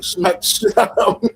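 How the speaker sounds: laughing while talking. Real, not acted. Laughing at his plan.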